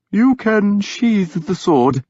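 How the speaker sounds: high, slow soothing priest voice; gentle. Acted. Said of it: "he said gently".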